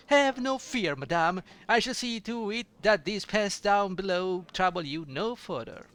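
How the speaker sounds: loud, lofty heroic promise; gallant hero. Acted. Hero reassuring the frightened innkeeper, grandly. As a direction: puff up like a brave knight.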